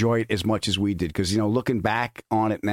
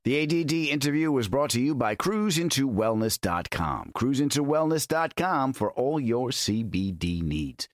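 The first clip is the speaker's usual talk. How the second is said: ad read; 3 dB quieter than usual. Acted. Sponsor ad read.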